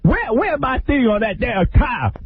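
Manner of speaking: high, slow whiny complaint; hammed-up Bobby missing his rims; mock angry Bobby. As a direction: whine it way up high.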